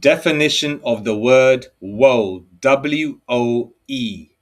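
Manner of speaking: loud, slow dictation to the phone; voice search. Real, not acted. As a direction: spell it out clearly for the phone to hear. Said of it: "I'm just using my phone".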